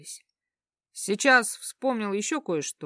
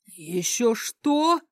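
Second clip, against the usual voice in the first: howling; 3 semitones higher, much slower than usual. Acted. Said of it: "взвыл бывший гад".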